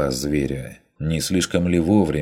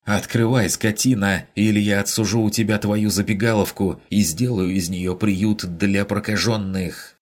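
furious threat; 5 semitones higher than usual. Acted. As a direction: threaten the innkeeper through the door. Woman outside threatens innkeeper. (яростная угроза, громче и выше)

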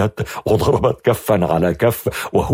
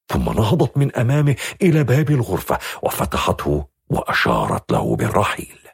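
ordinary delivery, nothing marked

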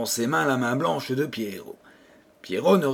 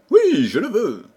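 firm, resolved yes; resolute; 6 semitones higher, 5 dB louder than usual. A narrator's reading. Pierrot pledging himself to the fairy, resolute. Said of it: "répondit résolument Pierrot".

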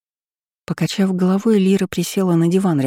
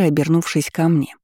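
ordinary delivery, nothing marked

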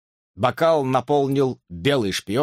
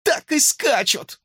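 high falsetto exclamation; hamster's falsetto; slower than usual. A narrator's reading. Hamster gawks at the teacher, excited falsetto. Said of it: "всё ещё фальцетом".

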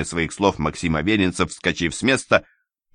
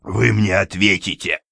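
hoarse wheeze. Acted. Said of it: "прохрипел он".

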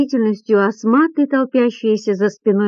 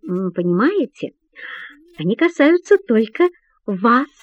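ironic; 3 semitones higher than usual. Acted. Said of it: "тоном, полным иронии".

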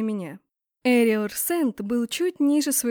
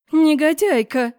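louder, slower angry yell; furious shout; 4 semitones higher, 8 dB louder, slower than usual. A narrator's reading. Empress yells at intruder, furious. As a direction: spit the insult out in fury. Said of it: "закричала женщина".

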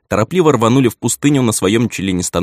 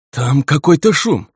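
defensive; 7 semitones higher, 3 dB louder, slower than usual. A narrator's reading. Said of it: "словно оправдываясь".

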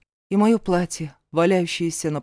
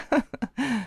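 short mocking laugh; spiteful laugh; 5 semitones higher, 5 dB quieter than usual. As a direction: laugh at her nastily. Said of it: "рассмеялась сестра".

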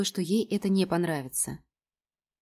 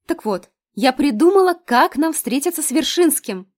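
high, loud, bursting with news; excited announcement; 8 semitones higher, 9 dB louder than usual. A narrator's reading. Lena bursts out her plan to her friend, high and loud. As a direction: blurt out the big idea, thrilled.

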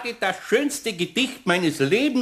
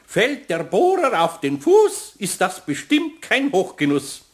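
poem recital; 4 semitones higher than usual. Acted. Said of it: "Eines meiner allerschönsten Gedichte".

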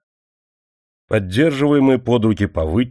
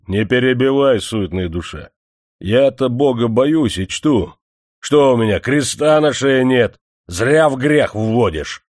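hypocritical angry scolding; the manager angrily shouts down the miner; 5 semitones higher, 4 dB louder than usual. Acted. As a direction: rebuke him as if wronged. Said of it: "гневно закричал Любимов".

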